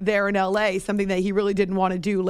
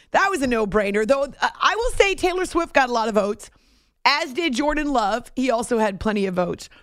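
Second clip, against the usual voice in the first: normal talking voice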